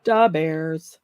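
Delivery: Chicago fan talk, "Da" for "The"; Chicago accent. Retold or imitated. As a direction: echo the skit in a Chicago accent. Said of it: "he talked just like that".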